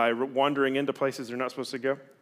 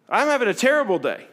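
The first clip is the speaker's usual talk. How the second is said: higher, louder frank complaint; blunt honesty; 9 semitones higher, 6 dB louder than usual. Retold or imitated. Answering church greeter, frank honest complaint. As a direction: own the bad day out loud. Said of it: "I go".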